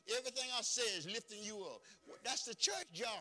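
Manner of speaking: high, loud, quick sermon delivery; rally the pulpit with promise; preaching at full force. Acted. Preacher promising the pulpit to lift them up, at full force.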